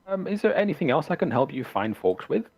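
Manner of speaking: lightly voiced farmer, pitch rising; Bildrath. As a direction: recover from a small disappointment and offer help. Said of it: "disappointed for a minute".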